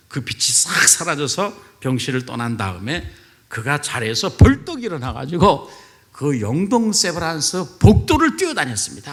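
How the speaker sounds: ordinary talk, nothing marked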